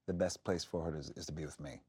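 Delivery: low, soft, reluctant admission; begrudging. Retold or imitated. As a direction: give in grudgingly, voice dropping away. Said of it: "he's so begrudging".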